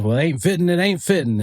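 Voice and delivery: imitating Arkansas folks saying "ain't fitting"; playful Southern drawl impression; Southern drawl quote. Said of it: "I've grown up listening".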